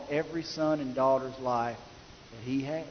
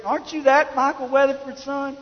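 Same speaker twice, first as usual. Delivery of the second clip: pointed questioning; 9 semitones higher than usual. Retold or imitated. Acted officer questioning the boy.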